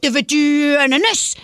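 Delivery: lightly cutesy voice to a pet; a touch of baby talk for the dog. Shown as a demonstration. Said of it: "en prenant une petite voix de bébé".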